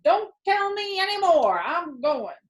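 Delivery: high, eager rat giving in; can't wait another second; excited rat. A narrator's reading. Templeton won over by the sheep, high and eager.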